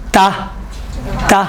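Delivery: تا said thin, tongue tip light, lips relaxed. Shown as a demonstration. Teacher to students, demonstrating the thin تا. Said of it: "باریک ہے نا".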